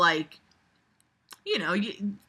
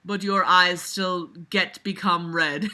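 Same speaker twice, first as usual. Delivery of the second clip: laughing while reading; 3 dB louder than usual. Real, not acted. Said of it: "laughs through it".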